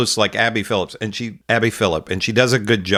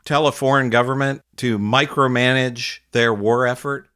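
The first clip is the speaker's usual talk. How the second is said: mocking quote; 2 semitones higher than usual. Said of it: "this asshole, says".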